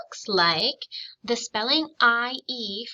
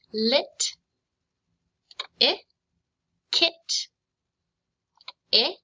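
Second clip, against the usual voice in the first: 1 slow phonics model; 3 semitones higher, much slower than usual. Shown as a demonstration. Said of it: "phonics teacher modelling the sound".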